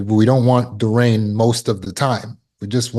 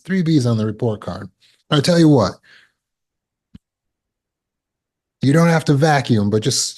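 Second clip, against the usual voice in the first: negotiating parent; 4 semitones higher than usual. Acted. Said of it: "same way I would with a kid".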